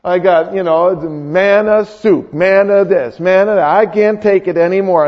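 mildly whining grumbler; mock fed-up complaint, lightly whined. Israelites sick of manna soup, mildly whining. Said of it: "And they whined".

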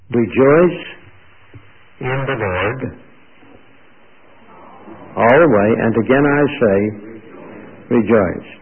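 loud, halting proclamation with long pauses; proclaimed verse. Real, not acted. Preacher quotes Philippians to the congregation, loud proclamation. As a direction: proclaim it loudly, phrase by phrase.

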